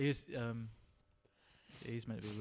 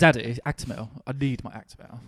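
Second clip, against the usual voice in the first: loud whiny spoiled brat voice; Macaulay Culkin impression; 2 semitones higher, 7 dB louder than usual. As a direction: demand it like a spoiled clubkid. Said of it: "you sound like Macaulay Culkin from Party Monster then".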